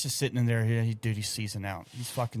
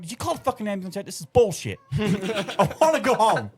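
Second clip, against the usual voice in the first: exasperated rant; 6 semitones higher than usual. Retold or imitated. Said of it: "I'm like".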